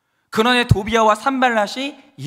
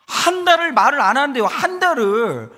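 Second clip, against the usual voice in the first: exasperated disbelief; 5 semitones higher, 3 dB louder than usual. Retold or imitated. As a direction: hammer home your disbelief at the long silence. Exasperated repeat about month-long silence. (기가 막힌 듯 높여 늘인 말투)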